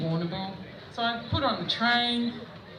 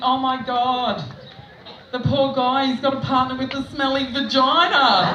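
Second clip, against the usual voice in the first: higher, louder mock-appalled thought; mock pity; 3 semitones higher, 4 dB louder than usual. Checkout chick pitying the poor guy, loud mock horror. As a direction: build the pity louder into the punchline.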